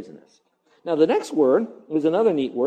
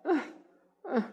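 short grunt of reluctance; exasperated groan; 10 semitones higher, 8 dB quieter than usual. Acted. Preacher mimicking reluctance at duty, exasperated. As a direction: grunt out a put-upon "ugh".

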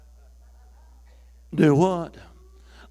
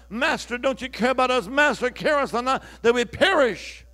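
retold cry; 5 semitones higher, 3 dB louder than usual. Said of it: "they cried out".

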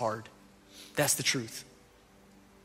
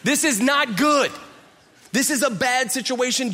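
much higher and louder, alarmed; alarmed Martha; 10 semitones higher, 7 dB louder than usual. Retold or imitated. Martha warning Jesus about the four-day tomb, high and alarmed. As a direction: sound the alarm, this is a disaster. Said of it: "she's going".

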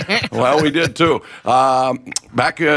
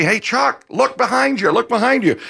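Jerry Cheevers; 9 semitones higher than usual. Retold or imitated. Goalie calling to a friend walking ahead, mock yell. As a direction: imitate a mild calling-out, pitched up. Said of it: "Jerry Cheevers yells to me".

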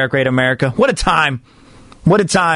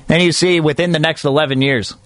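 usual speaking voice

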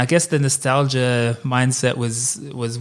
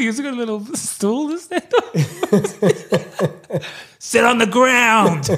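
laughing; 7 semitones higher, much slower than usual. Real, not acted. Laughing joke about DeVito.

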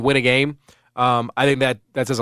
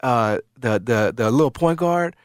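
put-on New York accent; 4 semitones higher than usual. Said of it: "he's got that thick New York accent".

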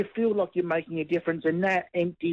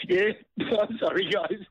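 choked up; 4 semitones higher than usual. Real, not acted. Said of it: "I promised I wasn't gonna cry".

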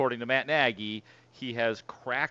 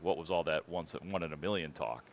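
quoted line; 6 semitones lower, 7 dB quieter than usual. Retold or imitated. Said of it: "he's like".

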